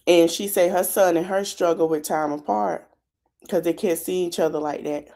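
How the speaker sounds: talking while chewing gum; words round a wad of gum; gum in mouth. Real, not acted. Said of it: "I got this gum in my mouth".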